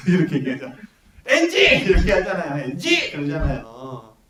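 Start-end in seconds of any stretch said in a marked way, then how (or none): 1.2-1.8 yelled high and loud with a laugh; director's shout. Retold or imitated. Director calling a bad take. 2.6-3.1 director's call. Retold or imitated. Director calling a bad take.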